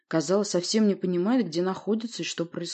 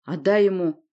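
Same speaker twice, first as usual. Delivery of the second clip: loud, brief demand; forceful command; called-out order; 5 dB louder than usual. Acted. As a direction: call it out firmly. Another figure joins the quarrel.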